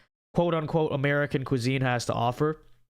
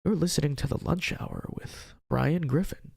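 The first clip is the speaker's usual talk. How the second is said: public radio voice. Retold or imitated. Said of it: "episode on the public radio voice".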